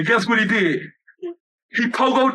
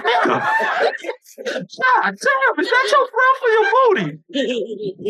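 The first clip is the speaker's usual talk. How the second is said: high, drawn-out laughing shout of disgust; mock disgusted shout; 11 semitones higher, much slower than usual. Girlfriend recoiling from his bad breath, shouting high. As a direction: yell it like she can't stand his breath.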